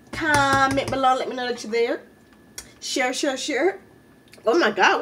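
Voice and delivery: upbeat, rehearsed sign-off to viewers; vlog outro. Acted.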